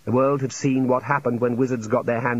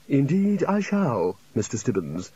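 unruffled calm; slower than usual. A narrator's reading. Academic answering an impatient junior, unhurriedly calm. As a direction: take your time, quite untroubled. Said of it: "said the Chair calmly".

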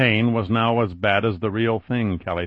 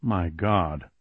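softer breathed words; 4 semitones lower, 5 dB quieter than usual. Acted. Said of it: "Sarah breathed".

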